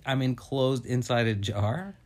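spaced-out stoned joke; high and rambling; stoner. Real, not acted. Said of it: "He is high".

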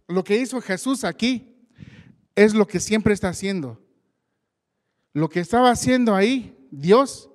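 slow, swelling preacher's proclamation; preaching. Acted. Preacher tells the church God calms the chaos: rising preaching. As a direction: build it up, preaching God's greatness.

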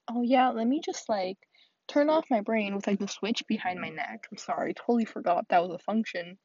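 sarcastic, exaggerated playing along; mock agreement. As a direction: pretend to go along with absurd advice. Mock agreement to useless advice.

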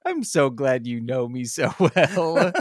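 retold line laughed through; laughing while quoting the friend. Friend laughing at her own mix-up, laughing through it. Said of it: "She's like".

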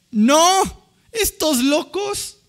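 loud, high outburst of disbelief; mock public dismissal. Onlookers reacting to the preachers, loud mock dismissal. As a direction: voice the onlookers rejecting them as crazy. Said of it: "¿Qué crees que piensa la gente?".

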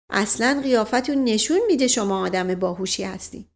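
smiling, coaxing flattery; butter him up with a smile. Acted. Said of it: "با تبسم گفت". (با لبخند و چاپلوسانه)

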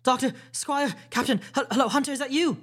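high, loud hailing cries; calling out. A narrator's reading. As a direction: hail them eagerly from outside the walls. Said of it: "came the cries".

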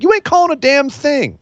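imitating Roman's scornful retort; defiant snap. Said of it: "And Roman's like".

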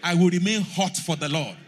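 very loud fervent prayer; shouted prayer. Real, not acted. Pastor leading the church in shouted prayer, very loud. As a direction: shout it with all your strength. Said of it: "Somebody shout".

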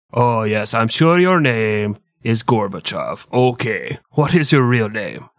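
put-on Russian accent. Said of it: "Your Russian accent is fucking atrocious".

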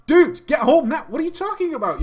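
loud, high-pitched panicked plea; acted-out frantic phone call; urgent demand. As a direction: order a friend to drop everything.

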